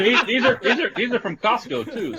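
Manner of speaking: talking while sucking on rib bones. Real, not acted. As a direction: mouth full of ribs, laughing. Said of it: "Sucking on the bone".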